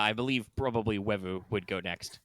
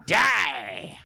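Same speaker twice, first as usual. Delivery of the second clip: sudden high battle cry; shouting; 10 semitones higher, 7 dB louder than usual. Acted. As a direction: scream it as a final defiance. Villain's last words in combat.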